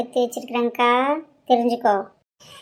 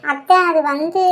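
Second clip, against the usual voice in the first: slow, drawn-out hesitation; reluctant, dragged-out start; hesitant stalling; 2 semitones higher, slower than usual. Acted. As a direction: stall before confessing to an aunt. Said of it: "இது வந்துன்னு சொல்லிட்டு இருக்கீங்க".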